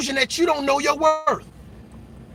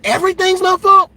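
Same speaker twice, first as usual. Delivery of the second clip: higher, louder disbelief; incredulous; 7 semitones higher, 3 dB louder than usual. Real, not acted. Answering a partner who blames everything on him, incredulous. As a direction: throw the blame back, incredulous.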